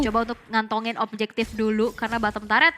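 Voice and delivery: rising hype on the big play; esports caster. Acted. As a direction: call the action, build to the kill. Casts the match play-by-play. (komentator esports yang bersemangat)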